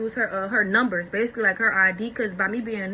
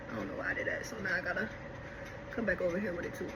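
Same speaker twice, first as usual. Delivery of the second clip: muttering to herself; 4 semitones lower, 12 dB quieter, faster than usual. Real, not acted. Scolding herself under her breath.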